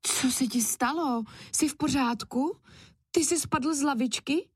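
put-on a kind mother cat checking on a child; concerned. A narrator's reading. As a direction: ask gently, full of worry. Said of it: "ptala se starostlivě plyšová kočičí maminka".

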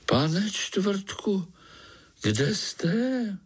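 high frightened whisper in the dark. Acted. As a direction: whisper for the lost mole. Spider lost in the dark. (šeptem, vyděšeně)

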